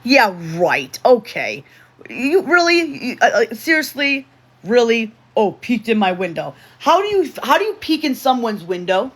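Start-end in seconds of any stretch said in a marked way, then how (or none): 2.1-9.1 really, you did what?; incredulous. Real, not acted. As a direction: pitch jumps much higher and louder in disbelief. Stunned by a chat comment.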